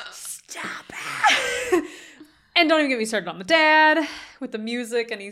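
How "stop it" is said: mock shout. Yelling stop at the movie screen, half-laughing. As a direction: yell it like a moved viewer. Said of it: "And I'm like".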